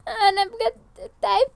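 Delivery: slow, high, teary; weary tearful sigh. Acted. Crying exhausted. (تعب وبكا)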